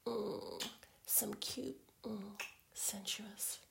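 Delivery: intimate teasing whisper. Acted.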